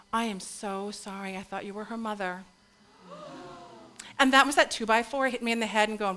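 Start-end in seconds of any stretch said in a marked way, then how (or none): 0.1-2.4 apologetic nurse. Retold or imitated. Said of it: "put her hand on my shoulder and say".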